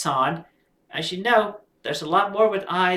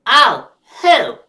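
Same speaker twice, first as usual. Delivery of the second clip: louder surprised voice for Sancho; Sancho asking; 6 semitones higher, 12 dB louder than usual. Acted. Sancho surprised by the coming visitor, louder. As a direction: pop out a startled question. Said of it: "Sancho asks".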